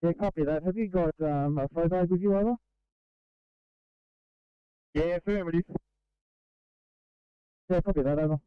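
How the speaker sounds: tinny two-way radio voice; crackly construction walkie talkie. Real, not acted. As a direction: speak through a crackling handheld radio.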